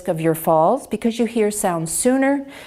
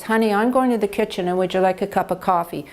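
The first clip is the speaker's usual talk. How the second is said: rushed speech; faster than usual. Shown as a demonstration.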